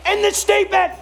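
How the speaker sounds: high shouted declaration, hammered out in pieces; full-force preaching. Real, not acted. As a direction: shout it as absolute, no exceptions.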